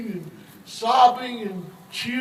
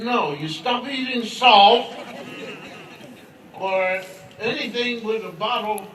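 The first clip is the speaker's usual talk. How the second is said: firm insistence; 5 dB louder than usual. Acted. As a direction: lay down the law. Jesus insisting on the advice.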